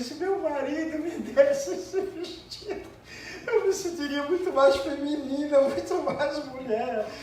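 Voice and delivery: a hint of a woman longing for a dress; dreamy wife voice. Pregador imitando a esposa sonhadora, um toque.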